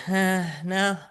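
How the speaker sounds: casual shrug-off. Retold or imitated. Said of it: "They just say".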